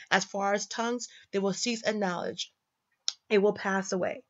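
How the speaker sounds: soft, measured reading aloud; scripture reading. Shown as a demonstration. Reading Corinthians to the audience, soft and measured. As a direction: read the passage gently and evenly.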